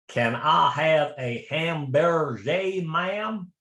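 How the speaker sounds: a Southern American faking a French accent, badly; mock French accent, overdone; horrendous French accent. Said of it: "put on this horrendous French accent".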